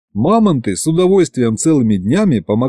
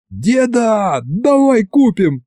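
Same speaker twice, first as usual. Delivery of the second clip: put-on high slow begging boy; boy begs grandpa to buy the mammoths; pleading yell; 10 semitones higher, slower than usual. A narrator's reading. High eager pleading. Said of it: "опять заорал я".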